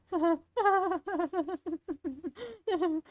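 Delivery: soft, high, rippling chuckle; villainous chuckle. Acted. Monster amused before leading the way, villainous chuckle.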